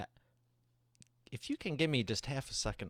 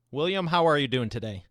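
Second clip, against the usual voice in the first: loud, higher, big game show introduction; hyped host intro; 4 semitones higher, 10 dB louder than usual. Acted. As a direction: bring the guest on like a boxing announcer.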